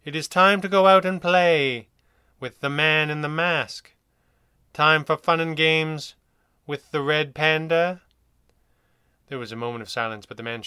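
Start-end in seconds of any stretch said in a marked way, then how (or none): 0.0-8.0 higher, louder, slow teasing command; commanding invitation, slow and loud; with authority. Acted. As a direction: lure him out with firm, playful authority. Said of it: "his voice betraying more authority".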